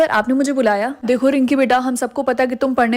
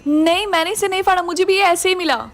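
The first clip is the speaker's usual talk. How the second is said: higher-pitched protest; upset denial; 4 semitones higher, 4 dB quieter than usual. Acted. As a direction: protest innocence, pitch raised. Daughter denies tearing the picture. (ऊँची आवाज़ में सफ़ाई देते हुए)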